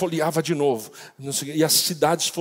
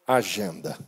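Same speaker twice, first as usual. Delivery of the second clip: voice of God; 2 semitones lower than usual. Retold or imitated. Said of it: "de Deus dizendo".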